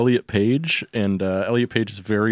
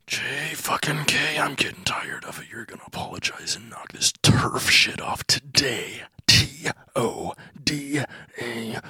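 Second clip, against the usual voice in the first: exasperated. Acted. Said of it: "Just exasperated".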